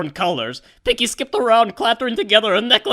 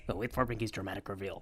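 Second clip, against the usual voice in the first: Pinky voice; 10 semitones lower, 16 dB quieter, faster than usual. Pretend. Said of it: "Pinky says".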